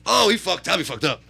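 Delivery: retold gleeful holler easing down; amused gloating. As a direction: hoot it out, tickled by his trouble. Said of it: "he's just so amused right now".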